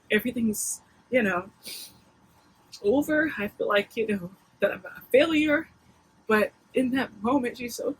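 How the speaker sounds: real emotion welling up, voice lifting and straining; holding back tears as it rises; getting emotional. Real, not acted. Mom admitting she feels like a failure, near tears. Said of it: "I'm getting emotional talking about it".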